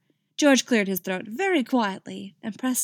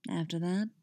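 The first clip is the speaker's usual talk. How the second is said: after that dropped softer, lingering; dark promise; 5 dB quieter than usual. Acted. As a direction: after that murmured as a seductive promise. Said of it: "voice full of dark promise".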